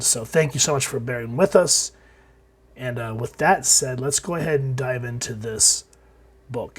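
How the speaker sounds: hoarse, worn-out sick voice. Real, not acted. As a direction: talk through a bad cold. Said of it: "I apologize if I sound like death".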